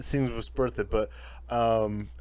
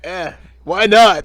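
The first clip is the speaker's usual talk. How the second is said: slow, high, loud careless shrug; Kano; 7 semitones higher, 11 dB louder, slower than usual. Retold or imitated. Retelling him agreeing to join the team, mock nonchalant. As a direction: drag it out in a hammed-up shrug. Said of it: "And he's like".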